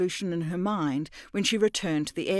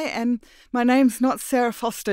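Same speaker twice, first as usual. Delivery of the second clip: higher and louder, earnest; Mira's shaken voice; 6 semitones higher, 6 dB louder than usual. Acted. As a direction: confess it nervously. Mira voiced high.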